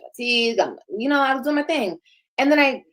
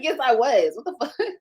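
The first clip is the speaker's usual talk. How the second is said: laughing; 2 semitones higher than usual. Retold or imitated. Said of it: "I was like".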